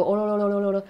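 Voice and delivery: imitated wild-boy call, held back; mock jungle yell. A narrator's reading. Narrator mimics Ishan playing jungle boy, mock jungle yell. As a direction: do a light jungle holler without real shouting. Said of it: "जंगलीसारखा ओरडायला लागतो".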